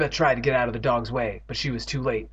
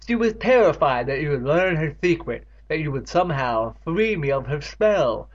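Catherine confessing; 3 semitones higher, 3 dB louder than usual. Acted.

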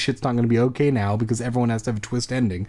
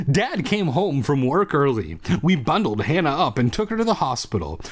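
measured storybook reading with swinging intonation; story narration. A narrator's reading. Reader telling a monster-baby story, lilting story narration. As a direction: read it out like a tale.

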